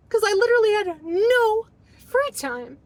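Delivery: words breaking into tears; real crying. Real, not acted. Woman recalls having no free time, crying. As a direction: let the crying come through the line. Crying while retelling her past.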